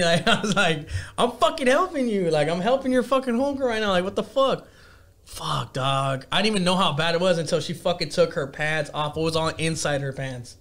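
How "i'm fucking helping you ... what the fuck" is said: retold exasperation, pitched up at first; acted-out irritated complaint, higher then settling; mild annoyance. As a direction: protest as if a little annoyed. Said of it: "a little annoyed".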